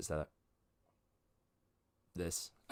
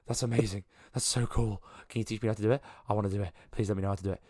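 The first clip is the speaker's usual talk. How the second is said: mildly awestruck, gushing under the breath; hushed excitement; 4 dB quieter, much faster than usual. Acted. Awestruck man begs to learn the trick, mild hushed excitement. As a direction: plead eagerly, with a touch of wonder.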